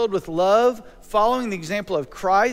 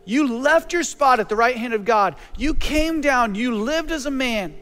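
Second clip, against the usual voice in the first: prayer. Acted. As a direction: pray it aloud, unhurried and sincere. Prays aloud to God.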